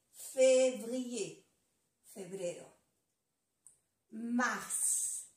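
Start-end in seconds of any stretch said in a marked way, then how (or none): 4.1-5.3 "Mars" with every letter sounded, final S included; all letters pronounced. Shown as a demonstration. French teacher modelling the month, all letters of "Mars" pronounced. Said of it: "se pronuncia todas las letras aquí".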